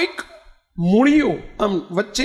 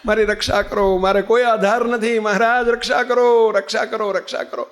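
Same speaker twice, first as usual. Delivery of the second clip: imitated crying out in prayer. Devotee clinging to the root begs God, imitated prayerful pleading. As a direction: act out a mildly desperate appeal for protection. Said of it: "બૂમો પાડે ને પ્રાર્થના કરે".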